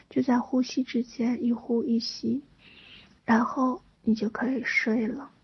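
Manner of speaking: hushed calming breath guidance; guided meditation. Acted.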